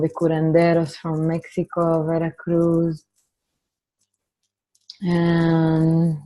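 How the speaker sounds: measured opening blessing, leaving space to breathe; guided meditation. Real, not acted. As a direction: gently guide the group inward, unhurried. Leads an opening meditation and dedication.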